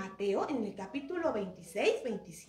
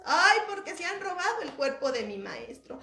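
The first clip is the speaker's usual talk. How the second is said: acted tearful lament; 4 semitones higher than usual. Weeping Mary answering who asked why she cries, mock tearful lament. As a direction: lament the loss in a raised voice. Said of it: "cuando ella estaba llorando".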